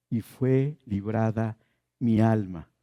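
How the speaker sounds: slow emphasis. Shown as a demonstration. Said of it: "Vi a Dios cara a cara, ¿y qué?".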